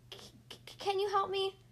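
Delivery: high, stammering little voice; a tiny creature hesitantly asking for help. A narrator's reading. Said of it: "said the little voice".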